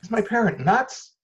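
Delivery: high-pitched mock bewilderment; baffled kid. Child reacting to parent's odd kiss, acted bafflement. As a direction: play a child stunned by a parent. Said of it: "But they're gonna ha-, like".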